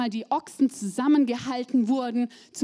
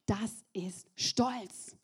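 whisper; 7 dB quieter, much slower than usual. Acted. Punchline of the point.

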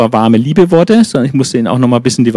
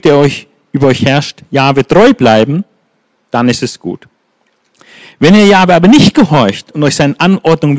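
stern admonition. Acted. Prophet warning Israel to obey God, stern preaching. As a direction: warn them with authority.

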